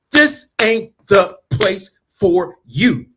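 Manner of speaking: each word slowed and leaned on; firm, deliberate put-down; slow emphatic. Real, not acted. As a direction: spell it out slowly. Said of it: "emphatic slow delivery".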